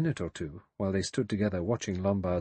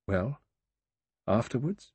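hard voice; 2 semitones higher than usual. A narrator's reading. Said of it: "in a hard voice".

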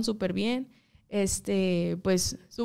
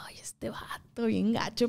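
muttered grumble; 6 dB quieter, slower than usual. Retold or imitated. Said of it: "Y así como que".

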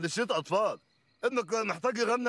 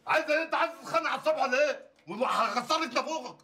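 higher, fast mock threat; hammed-up angry rant at her; 8 semitones higher, faster than usual. Mock quarrel with wife. (زعيق بهزار وبسرعة)

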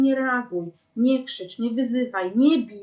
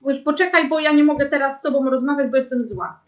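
louder, firm angry refusal; 2 semitones higher, 5 dB louder than usual. Shown as a demonstration. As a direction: push back hard, refusing to talk now. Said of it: "właśnie tak". (głośniej, ze złością, stanowczo)

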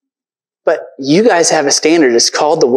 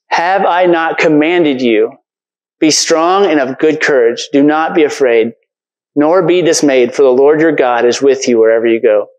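slow, deliberate reread, leaning on each clause; preacher rereading the verse slowly for the congregation; slow emphatic recitation. Shown as a demonstration. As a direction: say it again slowly so it sinks in. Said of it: "one of those verses that we speak".

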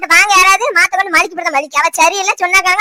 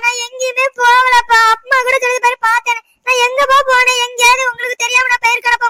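tearful pleading; 3 semitones higher than usual. Acted. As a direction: whine it to dad, stretching each phrase. Accused daughter pleads tearfully with father. (அழுதுகொண்டே இழுத்து கெஞ்சும் குரல்)

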